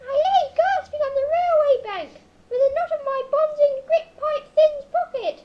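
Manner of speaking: loud, urgent hero's account; melodramatic narration. Acted. Hero recounts lying bound by the railway, loud and melodramatic. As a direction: declaim your plight at full volume.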